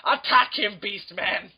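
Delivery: hammed-up villain giving orders; put-on villain voice; cartoon villain. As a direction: command a henchman in mock outrage. Cartoon villain ordering his henchman.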